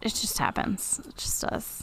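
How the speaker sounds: soft unvoiced whisper. Real, not acted. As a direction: whisper it gently. Consoling co-host, whispered.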